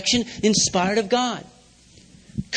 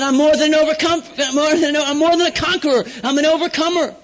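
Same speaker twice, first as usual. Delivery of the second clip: triumphant confession; 4 semitones higher, 3 dB louder than usual. Retold or imitated. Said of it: "And I said".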